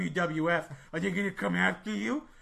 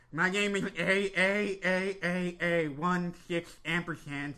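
slow formal recital; slower than usual. Acted. Guest begins his story solemnly.

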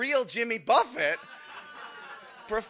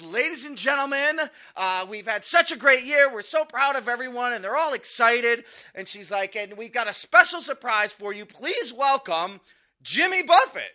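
stage announcement; 4 semitones higher, 3 dB louder than usual. Retold or imitated. Vice president announcing on stage.

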